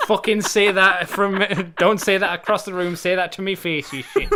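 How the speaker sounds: loud hammed-up Geordie pub threat; mock Geordie threat. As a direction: square up in a Newcastle accent. Acting out a Newcastle brawler.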